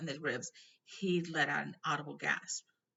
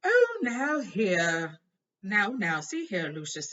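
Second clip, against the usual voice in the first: loud, high, slow flustered protest; alarmed Fudge; 4 semitones higher, 12 dB louder, slower than usual. A narrator's reading. Fudge protesting to Malfoy, loud and alarmed. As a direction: scramble to object. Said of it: "looking alarmed".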